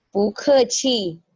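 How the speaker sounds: slow "bu ke chi" with light "chi"; neutral tone demo. Shown as a demonstration. Teacher models phrase slowly for class. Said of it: "chi-nya itu ringan".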